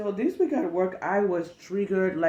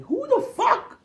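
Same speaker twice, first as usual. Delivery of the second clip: incredulous retort; 3 dB louder than usual. Retold or imitated. Retold own reply, high.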